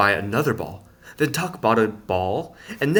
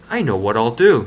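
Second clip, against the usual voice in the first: louder, bright declaration; declaring; 9 dB louder than usual. A narrator's reading. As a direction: announce the plan proudly. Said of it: "he declared".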